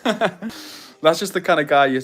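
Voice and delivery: real laugh through the words, slowed. Real, not acted. Showing chat his crazy sliders, laughing through it. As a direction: chuckle while showing off the silly sliders.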